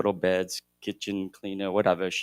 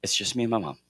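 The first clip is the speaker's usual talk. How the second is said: tender quiet words; 4 dB quieter than usual. Retold or imitated. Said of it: "in the quiet moments of the night".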